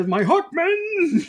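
slow, booming high war cry; Brian Blessed bellow. Retold or imitated. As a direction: roar it like a hammy king. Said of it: "love Brian Blessed".

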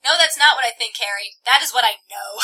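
loud, emphatic acted comeback; heated, firm contradiction; angry retort. A narrator's reading. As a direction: correct them forcefully. Tessa retorts in the quarrel.

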